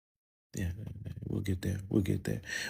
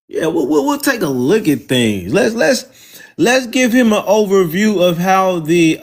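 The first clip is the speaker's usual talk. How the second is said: much higher, teasing; mock high voice; 8 semitones higher, 4 dB louder than usual. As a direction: squeak it up to mock him. Taunting visitor in mock voice.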